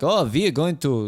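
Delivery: hint of a comic German accent; attempted Dutch accent turned German. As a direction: try Dutch, slip into German. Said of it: "we're German now".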